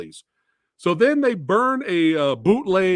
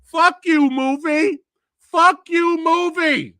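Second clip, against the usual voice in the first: louder and higher, cursing the movie; angry outburst; 7 semitones higher, 6 dB louder, slower than usual. Real, not acted. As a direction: let the frustration explode at the film.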